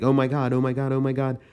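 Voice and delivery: woman on a ladder, Godzilla approaching, mock-panicked gasps; imitated breathless panic. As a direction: voice her thrilled fear, panting. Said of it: "all out of breath from her near encounter".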